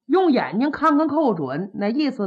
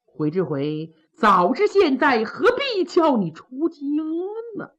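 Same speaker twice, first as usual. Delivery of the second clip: acted grieving reproach, drawn out in places; understated mourning recitation; mild tearful lament. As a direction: lament the dead between half-held sobs. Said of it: "一边哭一边数落".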